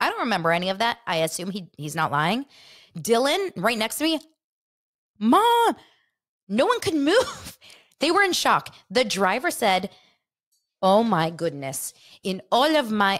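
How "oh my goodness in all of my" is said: horrible, bad, fake put-on Greek accent. Retelling what a driver said after a car accident, in a horrible Greek accent. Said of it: "I'm a horrible Greek accent".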